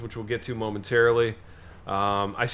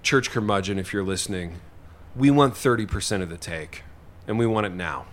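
mock mobster demand; 5 semitones lower than usual. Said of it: "The minutes are gonna say".

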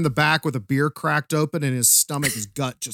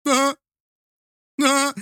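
dopey cartoon-dad chuckle; short, high imitated chuckles; Peter Griffin chuckle; 11 semitones higher than usual. Chuckling at the villains' accent, cartoon chuckle. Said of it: "like Peter from fucking Family Guy, just chuckling".

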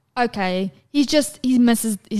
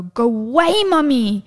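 childish push-away, played by a parent; imitating jealous toddler; 3 semitones higher, 4 dB louder, slower than usual. Mom imitates son pushing her from dad's hug, jealous toddler. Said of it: "push me and go".

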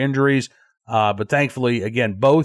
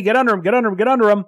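mildly urgent, higher-pitched mock call; retold urgent call; 7 semitones higher, much faster than usual. Rescuer urging others under the child, retold urgent call. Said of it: "Another voice can be heard saying".

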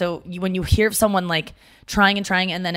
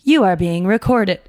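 mock Zoom voice; 3 dB louder than usual. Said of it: "the voice on Zoom that goes".

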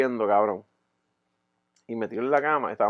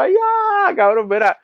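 exasperated; 14 semitones higher, 4 dB louder, slower than usual. Retold or imitated. Exasperated reaction.

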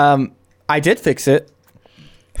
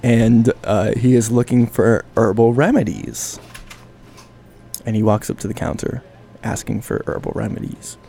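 narrator voice; 2 semitones lower than usual. A narrator's reading. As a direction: murmur it like a nature documentary. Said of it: "here comes my narrator voice".

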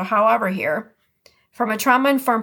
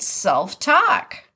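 Midwest accent. Shown as a demonstration. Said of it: "could I say that anymore with a Midwest accent".

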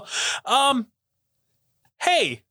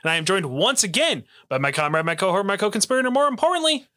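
ringmaster; 3 semitones higher than usual. Acted. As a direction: announce it like a ringmaster. Show host big intro.

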